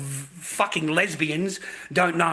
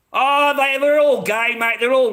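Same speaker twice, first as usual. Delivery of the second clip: higher, louder ranting burst; sudden loud outburst; 9 semitones higher, 7 dB louder than usual. Real, not acted. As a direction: blurt it out loud and high. Ranting, voice jumps up.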